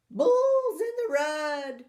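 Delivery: loud, high cry of alarm; grandma crying out in alarm; alarmed call. Acted. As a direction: call out the trouble like a startled grandma. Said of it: "Grandma said".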